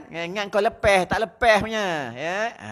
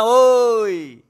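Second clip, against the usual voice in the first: calling out; 7 dB louder than usual. Real, not acted. Preacher teasing the cameraman, quick raised call. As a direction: snap his attention over.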